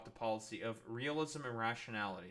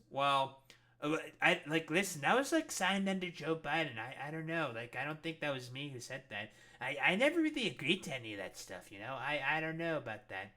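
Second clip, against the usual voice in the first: mock evasive president; 2 semitones higher than usual. Voicing Trump dodging the Doha deal.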